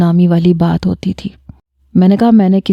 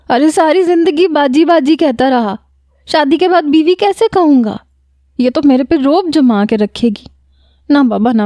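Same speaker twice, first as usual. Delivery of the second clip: higher, whining sobbed complaint; tearful wailing protest; 7 semitones higher than usual. Retold or imitated. Majid to his father, refusing the marriage in tears. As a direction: pitch up like a boy crying to his father. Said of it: "اپنے آنسو صاف کرتے ہوئے".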